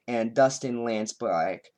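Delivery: slow southern drawl on the name; accidental southern accent. Real, not acted. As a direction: slip into a southern twang on Dustin Lance Black. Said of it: "I suddenly had a southern accent".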